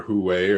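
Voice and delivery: "Huawei" as a tentative second pronunciation; alternative pronunciation. Shown as a demonstration. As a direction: offer "Huawei" as another way to say it. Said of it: "I usually say Weiwei or".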